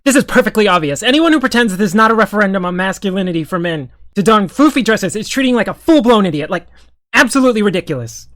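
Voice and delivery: a hint of a fast pundit voice; Ben Shapiro impression. Attempting a fast, lightly done impression of a pundit's rant. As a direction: rattle it off quickly, lightly mimicking a debate pundit. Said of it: "let me see if I can do a Ben".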